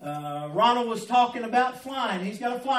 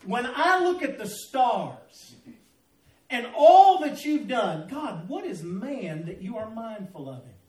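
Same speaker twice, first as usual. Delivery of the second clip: slow wondering quote. Retold or imitated. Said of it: "here's what he said".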